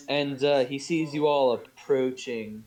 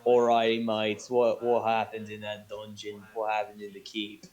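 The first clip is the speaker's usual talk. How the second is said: light Australian dwarf. Acted. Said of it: "I'll just do Australian".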